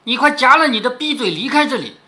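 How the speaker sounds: understated angry rebuke, read aloud; a touch of storytelling anger; mild acted scolding. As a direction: scold her off with restrained force. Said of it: "他指着他就骂说".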